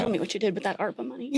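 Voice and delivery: fast, playful interrogation; mock grilling. Host jokingly questions a guest about money, mock grilling. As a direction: pretend to grill a guest, rattled off quickly. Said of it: "like, you're grilling".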